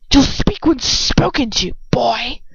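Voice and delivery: slow, cutting, each word weighed; cold rebuke. Acted. Lucius slowly rebuking the boy Ron. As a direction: drag it out like a cold threat. Lucius retake, more menace.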